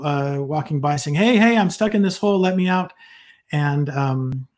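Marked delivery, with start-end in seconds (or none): 1.2-2.9 mock yell for help. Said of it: "he's yelling and screaming at the people".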